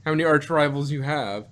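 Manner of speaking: a hint of the exasperated uncle; mock Donald voice. Quoting Donald to the kids, mock exasperated.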